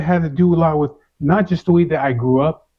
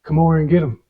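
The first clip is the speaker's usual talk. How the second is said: mimicked yelling; 3 semitones higher, faster than usual. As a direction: throw the friend's angry yell back, half full. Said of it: "he's like yelling".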